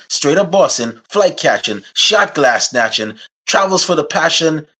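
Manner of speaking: rhythmic rhyming self-introduction; hype intro. Acted. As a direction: hype yourself up in rhyme.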